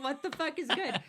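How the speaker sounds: loud, high mocking girl voice; TikTok girl voice. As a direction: quote her sassy and loud. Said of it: "TikTok of this girl being like".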